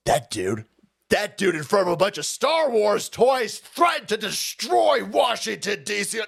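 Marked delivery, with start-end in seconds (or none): 1.1-6.2 outraged shout. Real, not acted. Outraged rant, shout heard.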